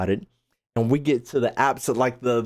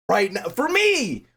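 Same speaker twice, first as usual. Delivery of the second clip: slow drawn-out; 6 semitones higher than usual. Real, not acted. Streamer weighing his ranking, slow drawl. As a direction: drag out for me, thinking.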